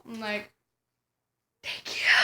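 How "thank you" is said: tiny, soft mock-tearful voice; tearful thanks. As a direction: squeeze out thanks while holding back tears. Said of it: "I'm really crying 'cause I'm just like".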